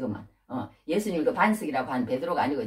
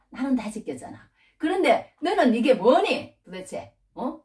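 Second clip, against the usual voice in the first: hypothetical divine telling-off, raised at first, dropping by the end; imagined scolding; 3 semitones higher, 4 dB louder than usual. Pretend. God reproaching Jacob for breaking his promise, mock scolding. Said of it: "막 이러면서 하나님 그렇게 야단치실 수도 있잖아요".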